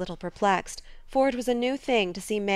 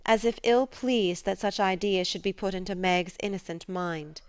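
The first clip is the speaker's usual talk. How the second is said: ordinary delivery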